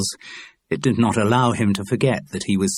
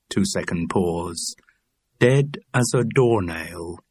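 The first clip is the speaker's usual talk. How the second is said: slow, sing-song list of "Dead as" phrases; mild rhythmic catalogue read; slower than usual. Acted. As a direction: fall into a steady listing beat. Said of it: "sound like a catalogue".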